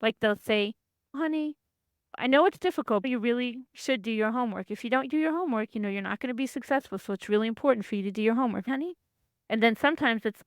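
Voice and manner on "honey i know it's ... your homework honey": sweet coaxing mother voice, quick and pitched up; lightly voiced caring mom; nurturing parent. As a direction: coax the kid kindly but briskly. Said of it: "a nurturing parent, which says things nicely".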